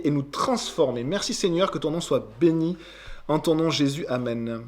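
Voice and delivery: hushed devotional prayer. Acted. Opening prayer before teaching.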